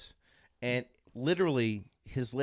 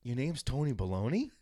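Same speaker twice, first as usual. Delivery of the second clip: softer, halting check; hesitant question; 2 semitones lower, 6 dB quieter than usual. Retold or imitated. Heckler checks the stranger's name, sheepishly asking. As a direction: ask it carefully, imitating your sheepish self. Retold timid question to angry kid.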